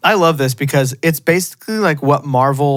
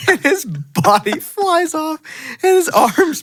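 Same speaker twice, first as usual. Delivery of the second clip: excited; 13 semitones higher, slower than usual. Real, not acted. Gleeful retelling of gory scene.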